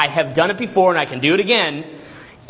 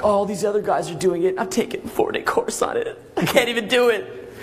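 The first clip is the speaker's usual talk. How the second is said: mock whiny self-pity; 3 semitones higher than usual.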